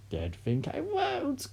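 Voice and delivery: put-on high, slow, threatening old woman; grandma daring them to stop her; menacing granny. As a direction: draw it out as a threat. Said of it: "Grandma said".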